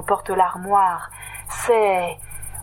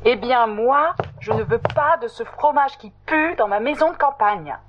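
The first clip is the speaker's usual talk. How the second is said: foot-stamping refusal; 4 semitones higher than usual. Acted. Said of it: "dit Meredith en tapant du pied".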